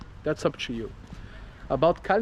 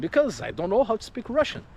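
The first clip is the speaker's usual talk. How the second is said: exasperated retort; 7 semitones higher, faster than usual. Retold or imitated. Mock answer to officer.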